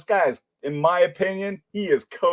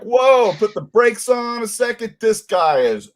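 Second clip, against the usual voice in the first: higher, louder "hold on" voice; imitating startled second thoughts, pitched up; mock alarmed objectors; 7 semitones higher, 4 dB louder than usual. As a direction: lightly voice people suddenly backing off. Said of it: "that they're like".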